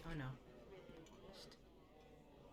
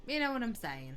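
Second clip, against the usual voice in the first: falling line in a tentative Irish accent; attempted Irish accent. Shown as a demonstration. Gamer showing where Scottish leads, attempted Irish accent. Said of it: "I can't intentionally do an Irish accent".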